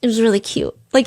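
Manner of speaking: usual speaking voice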